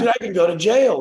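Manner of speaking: high, loud alarmed protest; alarmed outburst. Retold or imitated. To parents bashing his door, high loud alarm. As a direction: raise the voice in alarm.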